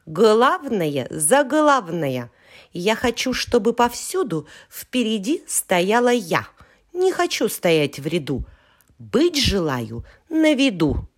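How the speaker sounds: lightly voiced proud little letter; rebellious boast. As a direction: boast like a spoiled child. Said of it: "взбунтовалась буква Я".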